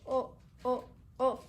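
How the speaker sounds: short, separate "o" sounds; teacher modelling a clipped "o"; isolated letter sound. Shown as a demonstration. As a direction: say "o" alone, short and evenly spaced. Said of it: "los sonidos".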